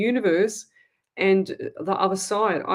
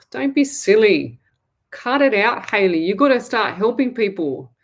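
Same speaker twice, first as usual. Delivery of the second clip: louder playful telling-off; louder mock telling-off; mock scolding; 2 semitones higher, 5 dB louder than usual. Real, not acted. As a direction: scold her firmly but fondly. Scolding viewer Hayley fondly.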